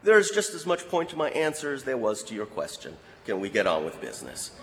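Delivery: a touch of calm dismissal; calm retort. Retold or imitated. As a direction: brush him off coolly. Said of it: "Al calmly looked at him and said".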